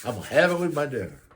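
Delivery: lightly hammed-up anticipation; imitating dad's relish. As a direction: mimic a grinning dad savoring his plan. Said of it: "And he went like this".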